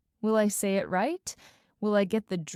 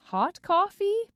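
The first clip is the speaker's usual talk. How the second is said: much higher, louder stunned question; shocked; 10 semitones higher, 4 dB louder than usual. Acted. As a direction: disbelief at the wrong drink. Freezes at wrong order.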